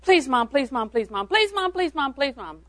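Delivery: put-on whining child. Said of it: "scenarios go like this".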